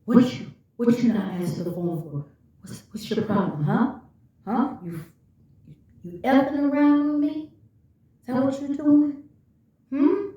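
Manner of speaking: fast, rising accusing interrogation; mock accusing. Narcissist interrogating her about the missed call, accusing. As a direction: badger her like a suspicious partner.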